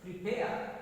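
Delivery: "Prepare" modelled with weight on "pare"; stress on second syllable. Shown as a demonstration. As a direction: say pre-PARE for the class. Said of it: "stress is on second syllable".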